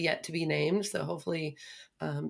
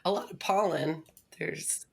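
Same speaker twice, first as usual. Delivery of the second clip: hoarse, raspy allergy voice; smoker's rasp. Real, not acted. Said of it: "I sound like a chain smoker".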